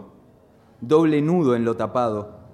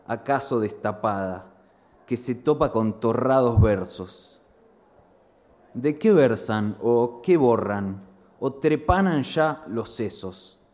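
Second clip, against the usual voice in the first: measured, deliberate poetry reading; poem recital. Acted. Poet reading his first poem to the audience, measured recital. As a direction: let each word land like verse.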